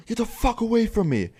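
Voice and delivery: mock scream. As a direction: imitate a terrified man screaming people off. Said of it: "he was screaming so loud".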